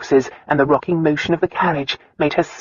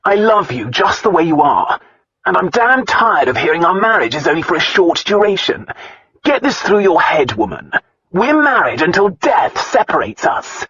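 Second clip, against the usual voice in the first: angry shouting; 4 semitones higher, 5 dB louder than usual. Acted. Angry quarrel, loud.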